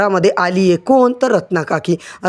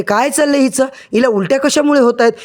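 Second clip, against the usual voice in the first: higher-pitched scolding without real shouting; mild mock yell; 5 semitones higher than usual. Malati demands to know why Rani is vomiting, mildly yelling. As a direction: scold in a raised pitch, volume held back. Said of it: "ओरडते".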